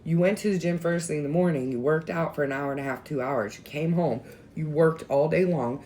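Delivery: husband scolding his wife after the gym, loud and exasperated. Retold or imitated. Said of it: "my husband even was like".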